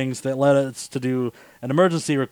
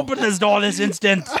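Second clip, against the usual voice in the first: cat voice; 6 semitones higher than usual. Acted. Acting out the cat demanding.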